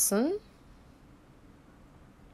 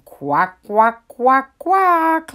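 laughing quacks; 7 semitones higher, 7 dB louder, much slower than usual. A narrator's reading. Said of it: "laughed Mama with her ducklings".

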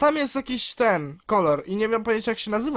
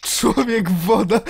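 mock horror; 4 dB louder, much slower than usual.

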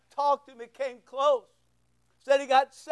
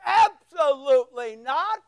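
slow, louder, stern mother's refusal; 5 dB louder than usual. Retold or imitated. Mom refuses son's motorcycle request, slow stern no. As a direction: lay down the law like a mom. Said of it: "So when I would say something to her".

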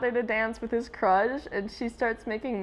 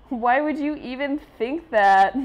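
put-on indignant voice; 4 semitones higher, 7 dB louder than usual. Reading comic character line.

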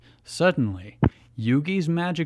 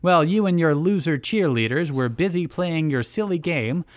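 higher, hammed-up villain monologue; cackling villainess bragging; gloating villain; 7 semitones higher, 4 dB louder than usual. A narrator's reading. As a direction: gloat theatrically over the beaten rival. Villain gloats after laughing.

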